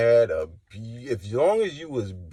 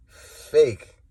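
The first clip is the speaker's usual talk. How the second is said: louder, sharp repeat of Fake; loud accusation; 4 semitones higher, 7 dB louder than usual. Real, not acted. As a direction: spit it out loud this time. Calling out fakes, repeated loud.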